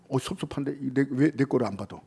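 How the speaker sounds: soft, low resentful muttering; sulky grumble. Retold or imitated. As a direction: mutter like a hurt brother. Cain's sulking voiced. (서운해서 낮게 투덜대기)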